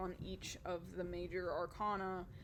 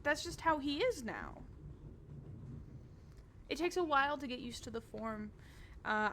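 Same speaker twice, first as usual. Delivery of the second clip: cheerful Adela; 3 semitones higher than usual. Acted. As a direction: chirp it up like an eager hostess. Adela chats.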